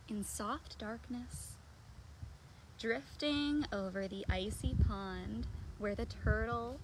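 put-on slow, gentle read-aloud to children; picture-book reading. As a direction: read it slowly and softly, like a bedtime story.

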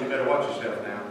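low, soft, mock-menacing warning; a hushed threat to scare the boy; murmured half-joking threat. Preacher warning a mean kid.

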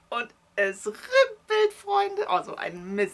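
high, loud wail of dismay; dismayed outcry. Real, not acted. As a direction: cry out at the disaster. Knitting unravels, dismay.

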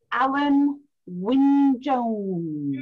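slow, drawn-out Welsh accent on Alan Wynne Jones; a self-mocking stab at a Welsh lilt; deliberately bad Welsh accent. Shown as a demonstration. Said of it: "That's my really bad Welsh accent there".

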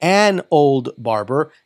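slow, the word an rising and leaned on; an old barber, with an lifted; slow and clear, hitting an; stress on an. Shown as a demonstration. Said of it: "Pero es an apricot".

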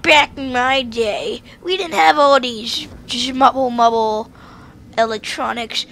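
put-on slow creaky old man; a hint of grumpy grandpa. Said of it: "I can't do an old guy voice".

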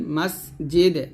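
"মাস জে দে" ending on a bounced d; qalqalah on dal. Shown as a demonstration. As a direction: echo the final d of "মাস জে দে". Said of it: "কলকলা করবেন". (দালে কলকলা করে "মাস জে দে")

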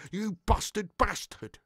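slow, lightly voiced bear line; mild slow bear impression; imitating the little bear. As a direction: drag out the bear's insult. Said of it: "he spoke like this".

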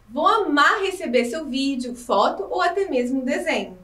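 ordinary talk

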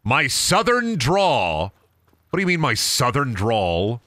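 slow, lightly put-on southern drawl; exaggerated southern drawl. Streamer answers a question about the southern drawl, mock drawling. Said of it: "Where did your southern drawl come from?".

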